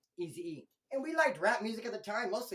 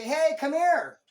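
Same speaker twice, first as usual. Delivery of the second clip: loud, high, demanding summons; calling someone over like a dog; mock bossy call; 8 semitones higher, 11 dB louder, much slower than usual. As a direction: bark it like a yard boss. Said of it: "You're not gonna say".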